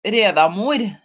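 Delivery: Norwegian-accented reading of an unfamiliar name. Real, not acted. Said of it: "read that with a Norwegian accent".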